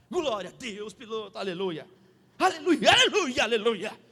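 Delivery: retold hallelujahs building then easing; praising God. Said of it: "comecei a dar glória".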